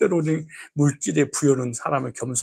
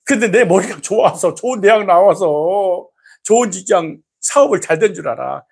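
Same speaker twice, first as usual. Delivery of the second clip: scolding God; 2 semitones higher, 3 dB louder than usual. Retold or imitated. Voicing God scolding congregant.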